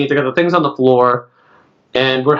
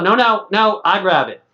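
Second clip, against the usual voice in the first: higher-pitched mock refusal; imitating hotel worker; 6 semitones higher than usual. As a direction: lightly mimic a worker stopping someone. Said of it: "the lady comes out".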